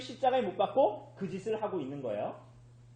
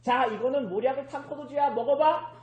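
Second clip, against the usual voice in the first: louder, higher mock taunt; mocking offer; 4 semitones higher, 5 dB louder than usual. Soldiers offering Jesus wine, mocking. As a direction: push the drink on him jeeringly, rising to the end. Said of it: "하면서 예수님을 어떻게 하는 거예요".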